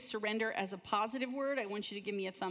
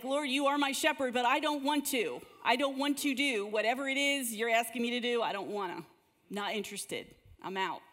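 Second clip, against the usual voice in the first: a bit louder, mock stubborn refusal; reluctant whine; 2 semitones higher, 3 dB louder than usual. Pastor voicing a believer refusing God, mock sulky. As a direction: play the grumbling believer who won't budge. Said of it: "How often do you be like".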